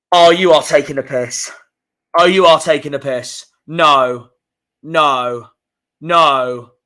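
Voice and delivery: loud, disbelieving groan at the fixtures; exasperated outburst. Real, not acted. Fan reacting to his club's fixture list, loudly exasperated.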